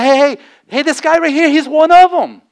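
high, loud calling out to bystanders; bold public accusation. Retold or imitated. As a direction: point him out to the whole crowd. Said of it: "she's speaking out boldly".

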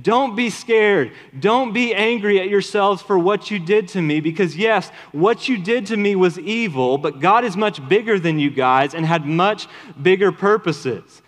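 a touch of a kind brother's voice; gentle Joseph. Pretend. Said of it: "No, instead he says".

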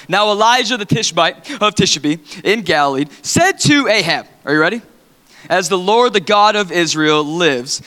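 measured, solemn Bible reading; preacher reading scripture to the church. Real, not acted. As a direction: read the passage with weight. Pastor reading scripture aloud.

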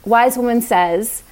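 slow, tender inner wise woman. Acted. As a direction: speak slowly, like soothing your own child. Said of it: "This is what she sounds like".

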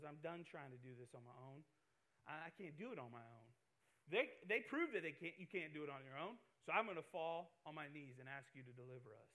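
soft, low surrender prayer; humble prayer. Pretend. Elijah admitting he cannot do it alone, soft. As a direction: confess helplessness quietly. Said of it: "who goes".

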